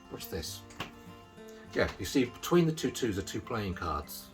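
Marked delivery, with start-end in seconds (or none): 0.1-0.6 whispered. Acted. Magician's hushed build-up to reveal.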